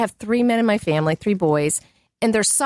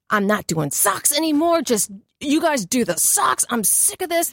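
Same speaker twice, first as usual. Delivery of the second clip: ranting; 3 semitones higher than usual. Retold or imitated. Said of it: "I'm like".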